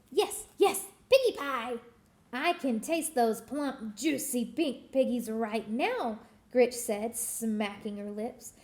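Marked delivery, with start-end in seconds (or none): 0.1-6.2 lightly voiced greedy hag, relishing; a hint of a cackling witch savoring the thought. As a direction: witch gloating over pie. Witch character voice Gritch.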